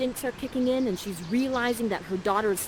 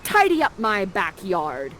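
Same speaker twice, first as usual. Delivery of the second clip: louder, commanding mistress; bossy sorceress; 6 dB louder than usual. Acted. Prospera ordering Ferdinand, in a loud bossy voice. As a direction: order the intern around. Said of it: "Prospera is going to say".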